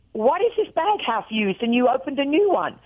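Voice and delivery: mock exasperated questioning. Wife quizzing husband about the opened bag, exasperated. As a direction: act out a mild domestic scolding. Retelling her scolding of husband.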